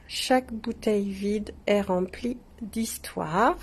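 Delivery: whispered repeat of the slogan. Shown as a demonstration. Shop owner repeating the engraving to viewers, whispered. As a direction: breathe the slogan as a secret.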